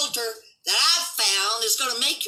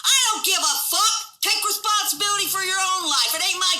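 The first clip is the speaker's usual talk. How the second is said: angry outburst; 8 semitones higher than usual. Real, not acted. Angry reply to mocked critic.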